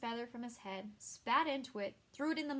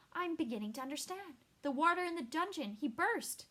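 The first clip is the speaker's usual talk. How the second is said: rising alarm; 6 semitones higher, 3 dB louder than usual. Acted. Sheridan realizes, rising alarm.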